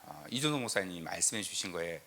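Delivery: ordinary talk, nothing marked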